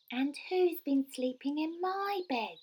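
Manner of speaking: high little wailing voice; squeaky, tearful Baby Bear. A narrator's reading. Baby Bear finding someone in his bed, tearful squeak. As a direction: squeak it as if upset to tears. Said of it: "squeaky little voice through his tears".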